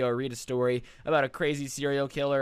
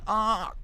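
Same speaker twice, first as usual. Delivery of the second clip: frantic scream; 6 semitones higher, 3 dB louder than usual. Shown as a demonstration. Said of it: "Something like this".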